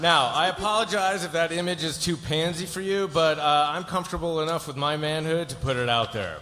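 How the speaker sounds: tag. Acted. Lawyer continues over-the-top speech to client.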